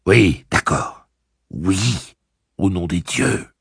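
slow, high, tearful yes; a friend on the edge of crying; close to tears. A narrator's reading. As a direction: hold back tears as you agree. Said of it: "l'impression qu'il pleurait".

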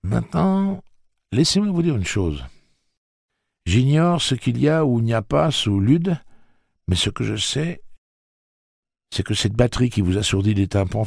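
high, loud, earnest explaining. Acted. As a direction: insist they listen. Eddie explaining, raised voice.

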